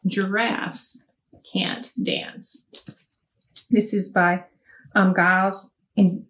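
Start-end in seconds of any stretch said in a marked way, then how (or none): 0.1-2.7 softly whispered book title; hushed whisper of the title. Shown as a demonstration. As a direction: breathe the title out like a secret. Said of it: "This one is Giraffes".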